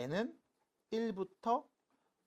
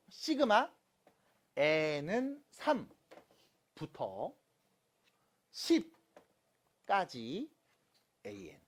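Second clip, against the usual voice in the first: slow demonstration reading; much slower than usual. Shown as a demonstration. Teacher showing students how to read sigma notation, slow and segmented. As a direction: piece by piece, with long pauses between parts. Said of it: "읽는 거".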